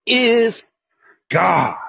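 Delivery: God is rising loud and high; proclaiming. Retold or imitated. Preacher in Argentina proclaiming to the crowd, loud and high. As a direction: shout it so the hall falls silent. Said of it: "I said".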